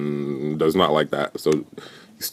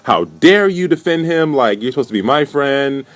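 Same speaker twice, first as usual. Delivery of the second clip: high-pitched, indignant imitation; mock mad outburst; 8 semitones higher, 4 dB louder than usual. Woman scolding friend who defended him, mock angry. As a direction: act out her annoying, worked-up protest. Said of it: "she gets even more mad".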